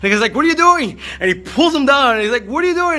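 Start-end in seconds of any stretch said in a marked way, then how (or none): 0.3-1.0 high, loud alarmed yell; panicked shout. Retold or imitated. Man pulled underwater yells in panic. 2.4-3.0 panicked shout. Retold or imitated. Man pulled underwater yells in panic.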